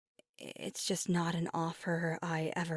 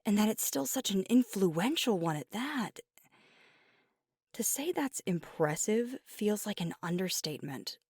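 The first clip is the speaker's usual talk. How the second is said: impassioned praise; 4 dB louder than usual. Acted. Impassioned praise of parents' pack.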